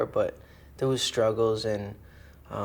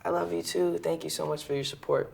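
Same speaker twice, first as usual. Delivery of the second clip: awkward reply; 6 semitones higher than usual. Retold or imitated. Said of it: "So you're just like".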